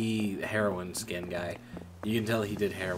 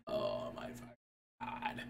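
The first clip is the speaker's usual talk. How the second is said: much lower, softer mutter; muttered disbelief; 11 semitones lower, 10 dB quieter than usual. Retold or imitated. Reacting to the manager's warning, low disbelieving mutter. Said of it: "I'm like".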